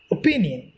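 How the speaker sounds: opinion as o-PIN-ion, PIN stressed; stress on second syllable. Shown as a demonstration. Teacher modelling word stress for students, opinion stressed on -PIN-. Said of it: "P is pronounced stressly".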